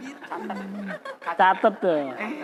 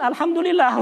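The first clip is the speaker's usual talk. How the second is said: mock relieved; 9 semitones higher than usual. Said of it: "Kan begitu katanya".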